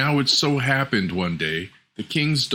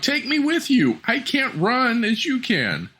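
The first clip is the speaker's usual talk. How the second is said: pleading frog. Acted. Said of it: "to scream this".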